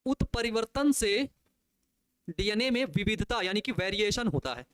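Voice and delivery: उत्परिवर्तन से said very slowly, syllable by syllable; slow dictation. Shown as a demonstration. Teacher dictating a key line to students, very slow. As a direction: dictate उत्परिवर्तन से slowly so they can write it. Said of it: "ये चीज याद रखना".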